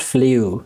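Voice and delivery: "flew" with a y-glide, like "flyoo"; "flew" as the mistaken "fliu"; mispronounced flew. Shown as a demonstration. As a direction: say "flew" wrongly as "flee-oo". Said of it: "No, it's not flew".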